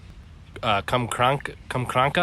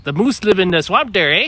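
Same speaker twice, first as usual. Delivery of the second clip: higher, louder mimicked Canadian; Canadian accent; 7 semitones higher, 7 dB louder than usual. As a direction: imitate a Canadian who ends on a questioning "eh". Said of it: "'Cause he'd be like".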